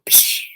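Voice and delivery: short hissed "psh"; a quick burst of "psh"; imitated flash sound. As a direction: make a whooshing flash noise. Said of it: "big ass flashlight comes".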